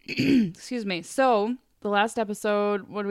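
throat-clearing, slightly husky; frog in throat. Real, not acted. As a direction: clear the throat, then speak. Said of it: "I have a frog in my throat".

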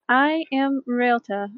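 slow, mildly grand self-introduction; majestic introduction. Acted. Ryota stands, smooths her dress and introduces herself, majestically. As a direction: announce yourself slowly with a touch of majesty. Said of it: "why are you being so majestic".

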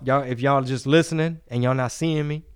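mock a friend's bragging; imitating Rob. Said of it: "He bring it up every episode".

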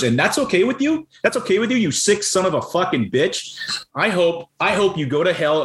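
real outrage, pitch shooting high; venting fury at people who shrug off the killings; pissed off. Real, not acted. Podcast host ranting at those fine with Afghan killings, furious. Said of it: "I'm that pissed off".

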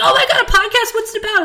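high squealing delight with a laugh; imitating a thrilled clerk; mock hyped clerk. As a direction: gush like an overexcited clerk. Hyped Apple rep retold.

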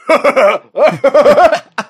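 raspy grown-up cackle; aged-up rapper laugh. Pretend. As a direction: laugh like a worn-out adult rapper. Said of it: "twenty-somethings going".

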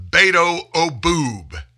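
slow, high sneering name-call; mocking nickname.

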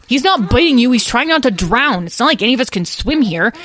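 put-on high, loud child's protest; frantic arguing. Lyle argues with Edwin while thrashing in water, frantic. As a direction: shout a correction mid-struggle.

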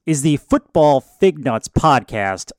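ringmaster. Pretend. Podcast intro, circus announcer opening.

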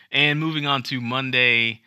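lightly hammed-up Trump impression. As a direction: ham up a Trump announcement. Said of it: "I'm gonna read Monday's news in Trump's voice".

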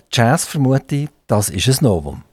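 usual speaking voice

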